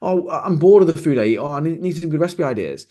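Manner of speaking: whiny mock client. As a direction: moan it like a bored dieter. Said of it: "they might say to you".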